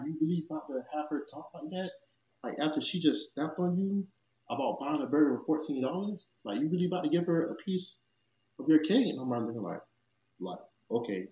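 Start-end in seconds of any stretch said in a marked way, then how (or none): 0.0-9.1 incredulous. Retold or imitated. She confronts the girl in disbelief.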